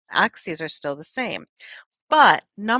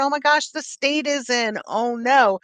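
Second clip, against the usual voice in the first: higher, a touch louder dismay; mock alarm; 5 semitones higher, 4 dB louder than usual. Arriving at work to a crisis, mock panic. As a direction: play it up: oh no, the stress.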